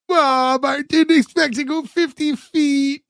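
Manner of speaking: high, hammed-up wail; mock sobbing. Wife to husband about her fifty-foot trip, mock sobbing. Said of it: "she just starts sobbing".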